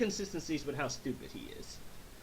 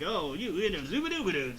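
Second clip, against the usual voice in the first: mock southern gibberish, higher and swooping; southern accent; 4 semitones higher than usual. Thirteen spouting random southernisms, mock southern accent. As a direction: babble in a sing-song southern twang. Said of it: "continues to use random southernisms".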